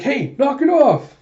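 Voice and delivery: loud, high-pitched telling-off; indignant rebuff. Retold or imitated. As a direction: shout it, drawn out and indignant. Alita angrily rebuffs a kiss.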